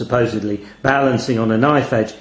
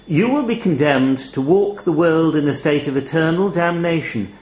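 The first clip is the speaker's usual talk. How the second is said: chilly raven. Acted. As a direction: let a chill creep in. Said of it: "A chill had crept back".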